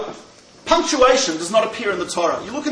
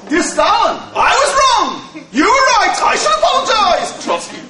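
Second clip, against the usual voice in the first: mocking emotional reading; 9 semitones higher than usual. Shown as a demonstration. Jew reading the telegram aloud to Stalin's audience, mock incredulous and much higher. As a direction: read it as a sarcastic, disbelieving question. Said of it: "reads it a little differently".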